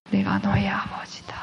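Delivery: soft unvoiced whisper; whispered divine words. God's words recalled again.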